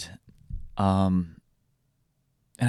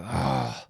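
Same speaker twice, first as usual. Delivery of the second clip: exasperated groan; 3 semitones lower than usual. Retold or imitated. Father torn by daughter's plea.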